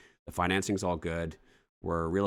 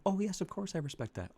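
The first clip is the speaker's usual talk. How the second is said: seller's voice; 12 semitones higher, 4 dB quieter than usual. Acted. Seller voiced in role-play.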